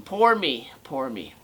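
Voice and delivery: mock self-pity. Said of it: "I hate to play the victim".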